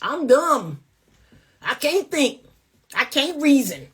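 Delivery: lightly voiced brainless man, mocking; a hint of the dim-witted brute again; mocking dumb man. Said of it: "That's what you're saying".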